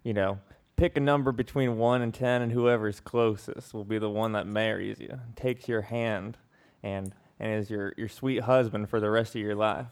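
drawling Southern twang creeping in midway; southern accent. Acted. Southern accent, mock-solemn advice to friend Andrea. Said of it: "put in a southern fucking accent".

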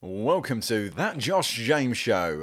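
slow, drawn-out presenter intro; radio presenter. Retold or imitated. Co-host imitating the host's intro, lightly hammed presenter. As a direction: stretch the welcome like a radio host. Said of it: "Like a radio presenter".

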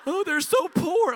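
high, slow, syrupy pity; mock pity. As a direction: coo it like a patronizing visitor. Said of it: "Like, how insulting".

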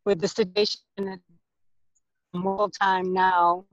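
choppy, dropping call audio; cutting out. Real, not acted. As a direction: voice breaking up on a bad connection. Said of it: "you're cutting out".

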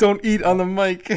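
laughing while scolding. Real, not acted. Friend scolds eating, laughing.

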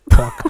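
"Quack" said as "kwawk"; regional pronunciation. Shown as a demonstration. Host demonstrating for a guest to copy, "Quack" as "kwawk". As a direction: round the vowel of "Quack" to "aw". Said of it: "the way you say quack".

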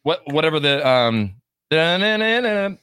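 talking around ice cubes; ice in mouth. Real, not acted. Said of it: "I've got ice in my mouth".

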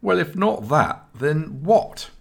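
put-on high, offended young man; a high, put-out demand; offended Joshua. A narrator's reading. Friend asks what he meant, high and offended. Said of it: "Joshua sounded offended".

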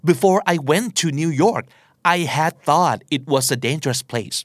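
very slow, careful English example; slow model sentence; slow demo sentence. Shown as a demonstration. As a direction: read it word by word for learners. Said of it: "วิธีการใช้ เช่น".

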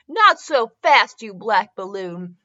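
loud, slow and drawn out on "Not so fast"; slow shout. Acted. Jessie shouting at Mister Popo, slow and loud. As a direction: bellow it slowly like a cartoon heroine.

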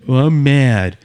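lightly imitated sulky big kid; mock big kid. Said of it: "like, big kid".

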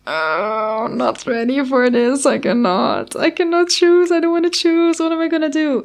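high, anxious, pleading self-imitation; panicky whining. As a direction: replay your own panic, voice climbing. Panicked retelling of own worry.

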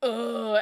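loud groan at a trailer; exasperated groan, imitated; collective groan. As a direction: groan it out loud in mock disgust. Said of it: "we'd all collectively be like".

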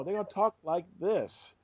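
Russian accent. Shown as a demonstration. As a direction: demonstrate a Russian accent, drawn out. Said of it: "So you go to Russia".

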